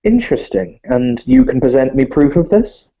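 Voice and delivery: refined vampire lord greeting a guest; Viscount Alexander Harkin. Acted. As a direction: play a polite, fussy nobleman. Viscount cocks an eyebrow.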